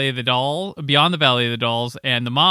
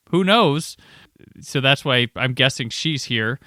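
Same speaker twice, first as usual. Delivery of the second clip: normal talking voice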